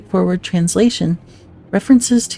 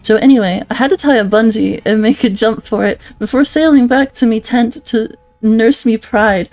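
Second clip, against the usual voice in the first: louder, hammed-up Aussie-British accent; British-adjacent accent; 3 dB louder than usual. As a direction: read it like a cheeky bloke down the pub. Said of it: "as the resident British adjacent".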